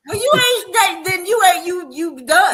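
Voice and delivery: playful teasing. Real, not acted. Teasing Charlie about being bougie.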